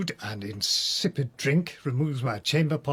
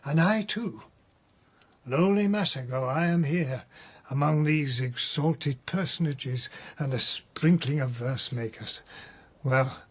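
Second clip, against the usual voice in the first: animated, rising; 5 semitones higher than usual. Acted. Prisoner conjures imagined party scene.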